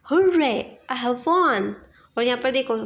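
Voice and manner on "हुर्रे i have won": cheering. Shown as a demonstration. Teacher cheering after winning the match. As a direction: cheer your win. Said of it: "match जीत लिया तो आप बोलेंगे".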